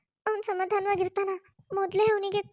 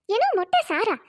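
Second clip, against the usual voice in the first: a mock startled elder; surprised mother-in-law; 2 semitones higher, 4 dB louder than usual. (ಅಚ್ಚರಿಯ ಅತ್ತೆ)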